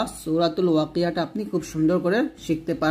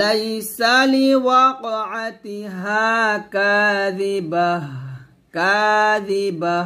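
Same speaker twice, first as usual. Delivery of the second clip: slow melodic كاذبة, thin dhal; slow recitation demo; 3 semitones higher, much slower than usual. Shown as a demonstration. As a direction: recite slowly for students. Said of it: "পাতলা করে উচ্চারণ করবেন". (ধীরে সুরেলা তিলাওয়াত)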